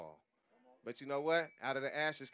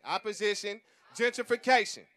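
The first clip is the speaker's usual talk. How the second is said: Opposition gentrification shouted, higher and louder; say it with your chest; 4 semitones higher, 7 dB louder than usual. Shown as a demonstration. Leading the crowd in the slogan, shouted. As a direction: belt out Opposition gentrification like you mean it. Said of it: "You gotta say it like you mean it".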